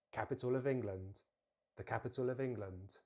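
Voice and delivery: "of England" joined inside "capital of England"; weak "of" run into "England"; carefully modelled phrase, "uh-vingland" linked; linked words. Shown as a demonstration. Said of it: "join it straight to the next word".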